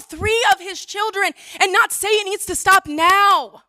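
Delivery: urgent heartfelt appeal to the council; impassioned plea. Real, not acted. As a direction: plead with rising passion. Pleading with council over civilians.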